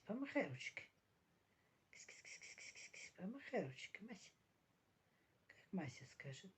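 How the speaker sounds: soft whispered cooing to cat. Real, not acted.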